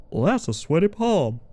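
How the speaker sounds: lightly voiced Southern film lead; Southern accent. Streamer quoting the lead's first line, Southern accent. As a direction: quote it in a mild Southern accent. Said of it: "talks in a very little bit of a southern accent".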